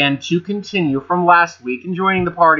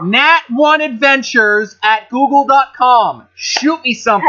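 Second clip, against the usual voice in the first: excited; 7 semitones higher, 4 dB louder than usual. Pretend. Mock sponsor plea.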